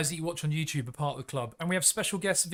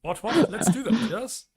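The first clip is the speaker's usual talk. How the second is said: put-on posh English accent; 5 semitones higher, 5 dB louder than usual. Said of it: "do an English accent".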